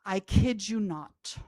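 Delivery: ordinary delivery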